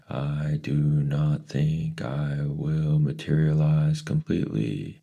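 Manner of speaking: high, slow, drawn out; eerie voice. Acted. Mrs Which not materializing, high and slow. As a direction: speak from nowhere, slow and strange.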